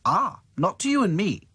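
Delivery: bright doll explaining; Dotty voice. Acted. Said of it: "explained Dotty".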